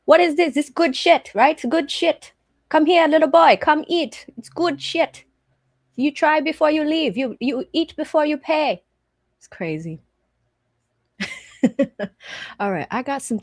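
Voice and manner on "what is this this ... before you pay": louder, higher commanding cook voice; barking at customers to try it; bossy cook. Retold or imitated. Thai cook ordering customers to taste, louder. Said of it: "And she says".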